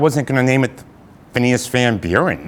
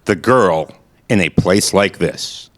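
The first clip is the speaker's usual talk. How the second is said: radio play narration. Acted. Narrator setting the scene at the Carpathian Hotel, announcer voice. Narrator reads stage directions.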